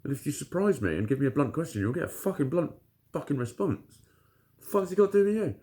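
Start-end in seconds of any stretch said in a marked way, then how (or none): 4.6-5.5 retold snap. Retelling his blunt reply.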